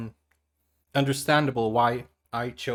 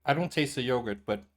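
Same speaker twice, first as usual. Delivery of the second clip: talking through a mouthful of food; chewing while talking, mouth full. Real, not acted. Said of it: "I'm talking with my mouth full".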